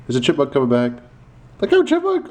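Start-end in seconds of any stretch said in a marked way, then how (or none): 1.6-2.3 high, loud warning call. Real, not acted. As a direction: shout a warning to the chipmunk. Calling out to chipmunk.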